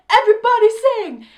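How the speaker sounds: loud, high rallying shout; Anthony Ramos. Retold or imitated. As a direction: call the whole audience to join in. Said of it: "you know, he goes".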